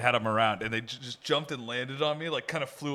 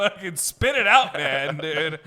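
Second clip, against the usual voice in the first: mock frustrated yell; 2 semitones higher, 5 dB louder, slower than usual. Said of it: "I'm like".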